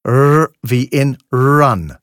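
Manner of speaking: "Run." with a rounded English r; "Run." r as if a short u comes before it. Shown as a demonstration. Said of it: "Klingt anders als das deutsche R".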